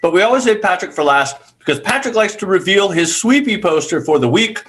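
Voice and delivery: words round a bite of cookie; chewing while talking. Real, not acted. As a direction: mouth full. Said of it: "I'm chewing on a".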